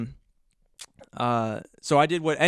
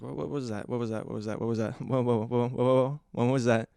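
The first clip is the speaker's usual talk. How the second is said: retold freak-out. Man shines flashlight after feeling something crawl, mildly panicked. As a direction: stammer it over and over, reenacting alarm. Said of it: "that freaked me out".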